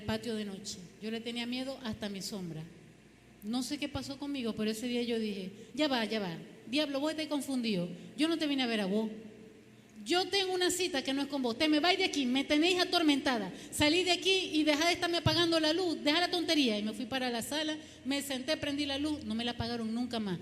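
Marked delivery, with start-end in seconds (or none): 5.7-16.8 indignant scolding, building louder and higher; acted exasperated outburst; fed-up telling-off. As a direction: tell off a pest, loud and high.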